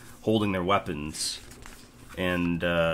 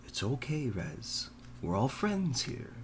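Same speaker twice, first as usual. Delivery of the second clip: gentle concern; 5 semitones higher, 5 dB quieter, slower than usual. Acted. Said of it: "looks very concerned".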